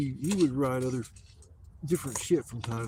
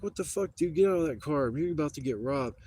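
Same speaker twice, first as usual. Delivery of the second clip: higher-pitched imitation of an alarmed friend; retold urgent warning; 4 semitones higher than usual. Buddy warning him on the phone, imitated urgent alarm.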